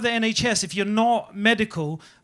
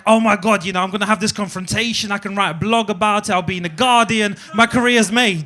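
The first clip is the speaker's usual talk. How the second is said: retold excitement, building louder at the end; excited; 4 dB louder than usual. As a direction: get carried away by your big break. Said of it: "I was so excited".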